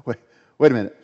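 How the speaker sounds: can't believe what he just heard; protesting prophet. Acted. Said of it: "The prophet says".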